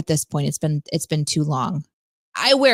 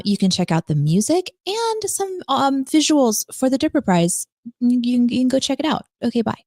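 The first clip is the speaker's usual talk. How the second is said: smooth radio host announcement. Acted. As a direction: read it like a DJ on air. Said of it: "I put my radio voice on".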